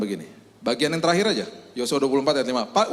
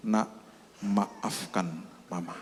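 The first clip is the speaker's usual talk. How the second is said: soft tender apology; 4 semitones lower, 6 dB quieter, much slower than usual. Acted. Mother apologizes on the phone.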